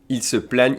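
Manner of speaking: "plaignent" with an open eh; accent grave demonstration. Shown as a demonstration. Teacher contrasting two verb forms, open accent grave sound. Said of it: "E accent grave".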